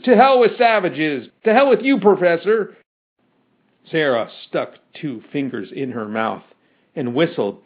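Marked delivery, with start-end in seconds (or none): 0.0-2.8 high, heckling shout; angry crowd cries. A narrator's reading. Mob curses the professor, high jeering cries. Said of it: "cried several hundred voices".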